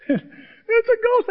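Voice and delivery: very high, loud, slow scream; drawn-out terrified shriek. Acted. Disciples see a ghost on the water, a slow high scream. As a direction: stretch the panic out long. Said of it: "someone says".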